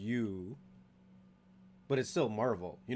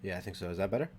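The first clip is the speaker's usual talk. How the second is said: far away; 6 semitones lower, faster than usual. Real, not acted. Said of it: "you're still far away".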